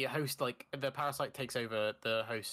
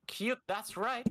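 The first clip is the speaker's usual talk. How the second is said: high drawn out; 9 semitones higher, much slower than usual. Pretend.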